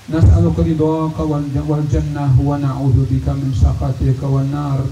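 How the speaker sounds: earnest imploring prayer, each plea ending in a dropped ya Allah; leading a prayer. Acted. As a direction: plead humbly for the community, voice falling at every ya Allah. Leads a long communal prayer.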